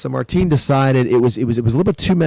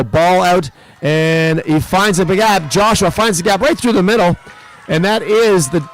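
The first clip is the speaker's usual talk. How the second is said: excited call; 5 semitones higher than usual. Real, not acted. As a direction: pitch rising higher as the play breaks open. Live call of a try.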